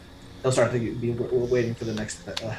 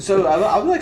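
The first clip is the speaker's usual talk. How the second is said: laughing; 9 semitones higher, 10 dB louder than usual. Real, not acted. Laughing while describing.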